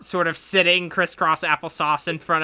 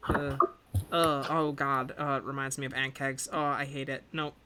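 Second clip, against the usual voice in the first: disgusted. Acted. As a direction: recoil from it, grossed out. Deb disgusted by crab.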